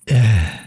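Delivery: short falling sigh; caught-out sigh. Acted. Vampire lets slip a secret, caught-out sigh. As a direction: break off with a small breath.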